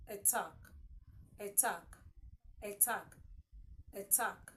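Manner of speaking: attack with an audible T, repeated; sounded T in attack. Shown as a demonstration. Teacher drilling learners to hear it, attack with sounded T. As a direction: model attack word by word, T clearly heard. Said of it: "you would hear the sound T".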